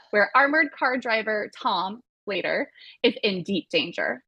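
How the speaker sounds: movie description read aloud, a touch of trailer drama; lightly hammed read of a movie blurb. Host reading the official blurb to the panel, mock trailer voice.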